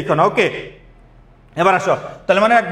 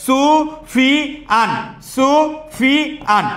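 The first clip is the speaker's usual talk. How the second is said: drawn-out call; 5 semitones higher, much slower than usual. Real, not acted. Calling inattentive student by name.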